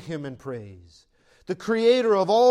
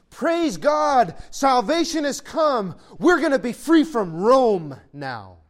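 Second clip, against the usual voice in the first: higher, louder joyful shout; excited crowd cheer; 4 semitones higher, 5 dB louder than usual. Retold or imitated. Crowd hailing Jesus as freedom from Rome, excited cheering. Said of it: "They are crying out for salvation".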